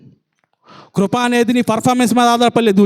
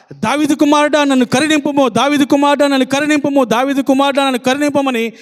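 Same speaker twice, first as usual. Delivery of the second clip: pleading cry, pitched higher; crying out loud; 4 semitones higher than usual. Acted. Blind Bartimaeus begs Jesus for mercy, calling out higher. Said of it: "బిగ్గరగా కేకలేస్తాడు".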